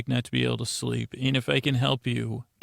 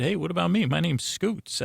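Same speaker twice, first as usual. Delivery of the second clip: lightly voiced higher alter ego; Scoots; 5 semitones higher than usual. Inner part introduces itself to host, lightly acted higher voice. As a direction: pipe up a little higher to introduce yourself. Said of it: "this part of me said".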